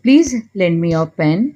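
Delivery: very slow, every word laid out clearly; slow model phrase. Shown as a demonstration. Teacher slowly models an English apology for Hindi learners. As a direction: say it slowly so learners can repeat it. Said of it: "किसी ने अगर हमसे कहा".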